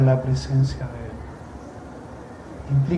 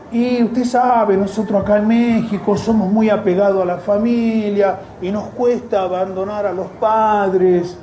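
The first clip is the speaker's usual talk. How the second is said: mimicking a sister excusing herself; 3 semitones higher, 3 dB louder than usual. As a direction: plead the family excuse in her voice, pitched up. Woman explains family ties.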